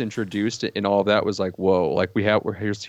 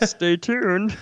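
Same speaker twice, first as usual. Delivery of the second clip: higher, slow, stretched-out posh critic voice; snooty film critic voice; 10 semitones higher than usual. Acted. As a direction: drawl it like a pompous critic with pinky up. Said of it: "the rest of my review in this voice".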